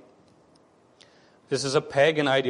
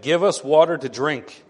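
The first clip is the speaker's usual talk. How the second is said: a touch of a demanding crowd; mildly hammed-up insistence; quarrelsome demand; 3 semitones higher, 4 dB louder than usual. Israelites quarreling with Moses over water, demanding. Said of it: "the people quarreled with Moses and said".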